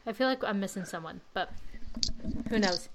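short of breath, talking through it; breathless, catching air between words. Real, not acted. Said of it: "Sorry, I'm out of breath".

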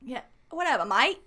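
badly faked Aussie accent; half-successful Australian twang, jokingly put on; attempted Australian accent. Shown as a demonstration. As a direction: have a clumsy go at sounding Australian. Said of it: "I can't do an accent".

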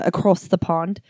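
slight put-on British accent; a half-hearted touch of British accent; lightly faked British vowels; bad British accent. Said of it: "that was a bullshit accent".

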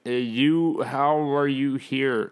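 slow, puzzled mock question; mildly baffled quote; confused. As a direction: ask haltingly, imitating a baffled gamer. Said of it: "Like, confused as to how".

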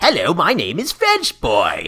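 hammed-up terrible French accent; badly faked French boy voice. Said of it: "a very shitty French accent".

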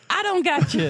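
high sheepish Dracula voice; squeaky admission of failure; deadpan Dracula. Retold or imitated. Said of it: "He's like".

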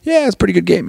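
high-pitched friendly buddy chat; jolly guy. Acted. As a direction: greet a pal about the game, pitched well up. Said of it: "this jolly guy".

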